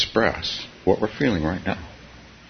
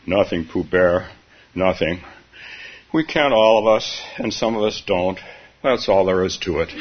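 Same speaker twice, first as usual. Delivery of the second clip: gloomy Eeyore; 4 semitones lower than usual. Acted. Eeyore's reply in read story.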